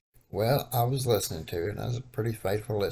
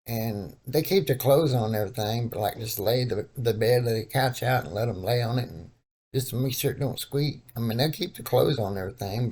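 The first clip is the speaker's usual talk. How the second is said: put-on old man voice. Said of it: "tried my best to do an old black man voice".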